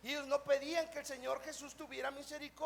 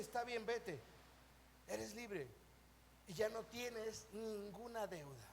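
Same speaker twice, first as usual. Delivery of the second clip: forgiving; 4 semitones lower, 8 dB quieter than usual. Acted. Acting out the master forgiving debt.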